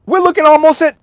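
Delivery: can't believe the total, voice climbing; outraged disbelief. Real, not acted.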